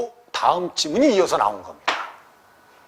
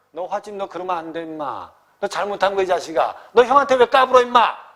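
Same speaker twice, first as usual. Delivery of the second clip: mock scolding brother. Drunk elder brother scolding.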